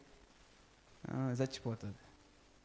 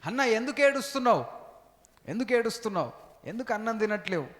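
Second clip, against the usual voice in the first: a lightly voiced husband, higher and quick at first; husband asking; 4 semitones higher, faster than usual. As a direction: ask her why she cries, pitched up. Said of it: "Elkanah వెళ్ళి ఏం అడుగుతున్నాడు?". (భర్త అడిగే గొంతు, కొంచెం ఎక్కువ స్వరంలో)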